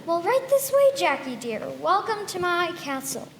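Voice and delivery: lightly voiced old woman, sugary welcome; a hint of a scheming old woman; sweet old lady. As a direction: lure the boy inside sweetly.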